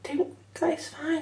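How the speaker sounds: lightly voiced gentle anaesthetist, slow and soothing; soothing high voice. Anaesthetist comforting crying patient.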